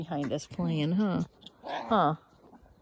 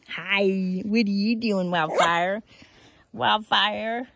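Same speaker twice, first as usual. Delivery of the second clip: cooing at the dog; 11 dB louder, slower than usual. Real, not acted. Greeting the dog Wildfire.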